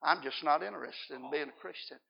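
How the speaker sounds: low, quiet, without any emotion; unemotional refusal. Retold or imitated. Kneeling man turns down the doctor again, emotionless. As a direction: decline softly, giving nothing away. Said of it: "no emotion".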